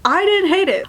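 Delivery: "didn't" lifted high; stress on didn't. Real, not acted. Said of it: "I didn't love it".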